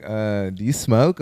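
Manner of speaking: slow, hesitant question in his voice; imitating him. Stranger asking if he smokes, slow imitation. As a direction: ask it slowly, a bit unsure. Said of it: "try to say it like how he said it".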